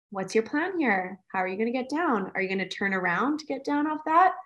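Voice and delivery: put-on calm questions to child. Shown as a demonstration. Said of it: "what's helpful is".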